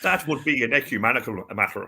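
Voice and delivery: put-on Irish accent. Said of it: "excuse my poor Irish accent".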